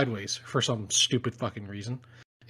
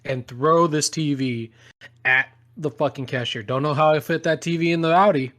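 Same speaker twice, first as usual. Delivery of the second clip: mock rich dad; 3 semitones higher, 5 dB louder than usual. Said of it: "playing the rich dad".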